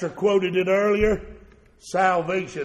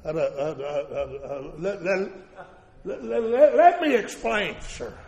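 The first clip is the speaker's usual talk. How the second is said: nervous stammer on let; stammering excuse to the king; stuttering; 3 semitones lower than usual. Retold or imitated. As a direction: Haman stammers before the king. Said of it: "there was some stuttering at that table".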